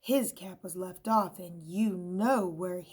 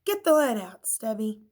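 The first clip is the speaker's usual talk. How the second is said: bossy yell; 3 semitones higher, 9 dB louder than usual. A narrator's reading. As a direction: bark the command. Scissors orders.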